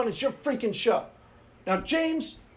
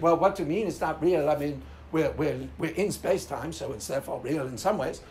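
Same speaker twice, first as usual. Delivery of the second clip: deep, mocking James impression; James imitation; 8 semitones lower, 3 dB quieter than usual. Mimicking James to mock his nitpicking, deep and ponderous. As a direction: drop low and mimic a pedantic questioner. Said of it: "my James imitation".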